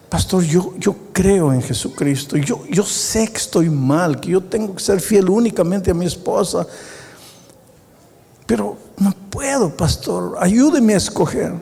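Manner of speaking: a hint of a desperate man, pitch rising as he begs; pleading man. Man with three wives begging the pastor to pick one, mildly pleading. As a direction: beg the pastor, voice climbing up.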